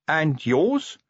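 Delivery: high, eager question; agog. A narrator's reading. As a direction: lean in, hungry to know.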